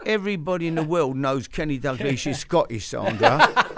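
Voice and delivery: retold exasperation. Retells his exasperated retort to wife.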